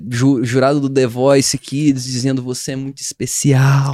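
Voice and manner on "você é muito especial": bajulador talent-show judge. Retold or imitated. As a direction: lightly imitate a flattering TV judge. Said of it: "jurados bajuladores".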